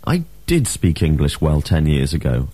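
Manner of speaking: "did" stressed, the rest falling away; emphatic DID. Shown as a demonstration. Teacher models the emphatic past, stressing "did". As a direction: hit "did" firmly. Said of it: "the emphatic form can also be used".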